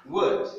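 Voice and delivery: Word, voyelle E, dit haut et fort; English model word. Shown as a demonstration. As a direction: appuyer Word avec la voyelle E. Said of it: "ce n'est pas O, mais E". (Word avec un E, très haut)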